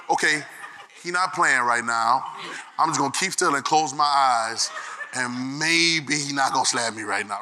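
put-on low, slow, hushed child bracing for a slap; scared child. Child hiding from an angry father, hushed and slow. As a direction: keep still and hope he doesn't swing.

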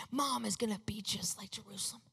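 hushed, wondering whisper; awed whisper. Retold or imitated. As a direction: breathe the realization out softly. Private realization after reading scripture.

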